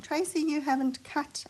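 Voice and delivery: mock scream. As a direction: imitate viewers calling out in protest. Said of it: "all screaming at me".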